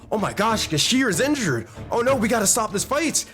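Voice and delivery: worried onlookers, lightly acted; concerned. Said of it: "they're concerned".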